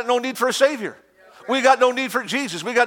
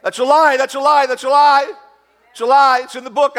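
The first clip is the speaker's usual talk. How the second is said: high, loud rebuke; preaching shout; 5 semitones higher, 6 dB louder than usual. Acted. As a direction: hammer it home to the church.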